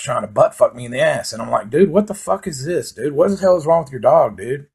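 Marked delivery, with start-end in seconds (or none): 1.7-4.7 outraged yell. Retold or imitated. Yelling at his buddy over the humping dog, high and outraged. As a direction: shout in disbelief at the dog.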